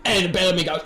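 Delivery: ordinary talk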